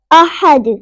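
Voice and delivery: अहद with a bouncing, released final D; echoing qalqala. Shown as a demonstration. Teacher models the verse ending, bounced D in अहद. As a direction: punch अहद and let the D echo. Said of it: "इधर कलकला होगा".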